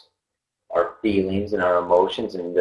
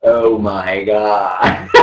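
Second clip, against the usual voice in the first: awed; much slower than usual. Retold or imitated. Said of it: "the person sits in the middle and goes".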